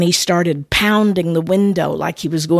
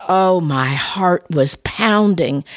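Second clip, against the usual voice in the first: slow; slower than usual. Shown as a demonstration. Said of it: "I mean, pounding".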